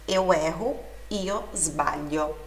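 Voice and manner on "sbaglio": "sbaglio" slow and low, gli as lh. Shown as a demonstration. Teacher translating "eu erro", slow lh sound in "sbaglio". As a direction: ease through "sbaglio" with no hard g. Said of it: "tem som de li".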